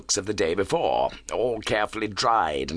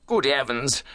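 higher-pitched exclamation of alarm; shocked cry; 6 semitones higher than usual. A narrator's reading. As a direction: exclaim in shock, without shouting. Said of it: "I cried".

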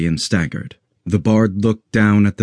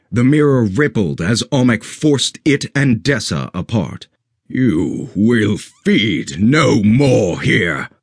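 stern guardian vow. Acted. Guardian vows destruction.

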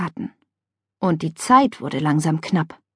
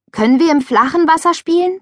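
higher, hopeful asking; pleading; 9 semitones higher, 4 dB louder than usual. A narrator's reading. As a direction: ask sweetly for the shallow end. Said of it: "bat Juli".

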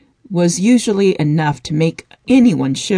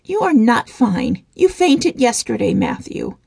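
livid tone; 6 semitones higher than usual. A narrator's reading. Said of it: "Jane spoke in a livid tone".

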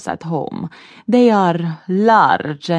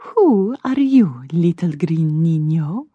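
teasing spider; 3 semitones lower, 3 dB louder than usual. A narrator's reading. Spider questions the elf.

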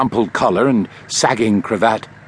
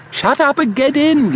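impatient yell, higher and louder; 3 dB louder than usual. A narrator's reading. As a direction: bark it at him, no time to waste. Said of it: "yelled the driver".

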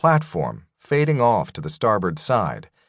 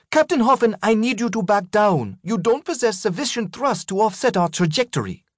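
higher, firm but calm captain; female captain voice; 12 semitones higher than usual. Acted. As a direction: warn him steadily as the captain. Legrand warns the narrator.

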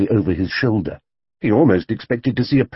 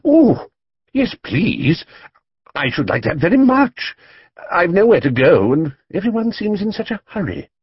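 excited bear; 10 semitones higher than usual. A narrator's reading. The bear thrilled at being invited home, excited. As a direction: burst out with joy at the invitation. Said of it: "with excitement".

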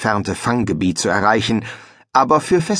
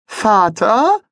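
higher, louder questioning call; young son calling; 12 semitones higher, 5 dB louder than usual. Acted. Les calls his quarrelling father, high and louder. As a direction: call out to get father's attention.

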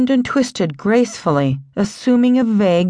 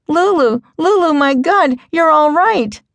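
higher, louder rush of relief; overjoyed relief; 7 semitones higher, 3 dB louder than usual. A narrator's reading. Kate bursts in and finds her friend alive, loud joyful relief. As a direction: burst out with joy that she's safe.

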